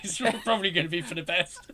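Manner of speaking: chuckling while talking; laughing. Real, not acted.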